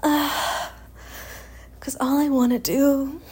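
drawn out, very slow. Real, not acted. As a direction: stretch every word out. Slow sultry build.

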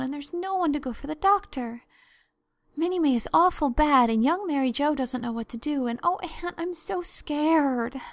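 loud, high anxious rush, slowing at the end; a scared child pouring it out; frightened girl. Acted. Diana frightened, reporting sick sister.

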